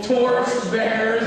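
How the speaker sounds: drawn out, slow call-and-response. Shown as a demonstration. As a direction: stretch it slowly for the crowd to repeat. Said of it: "Come on, work with me".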